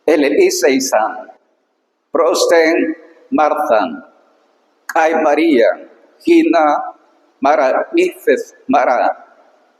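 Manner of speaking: slow, careful reading of ancient Greek. Shown as a demonstration. Teacher reading the Greek verse to students, slow and careful. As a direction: read each word apart for the students.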